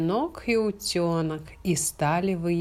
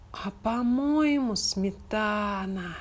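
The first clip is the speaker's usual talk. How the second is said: licking cat; 3 semitones higher, slower than usual. Acted. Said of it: "облизнулся на заборе кот Чернобурчик".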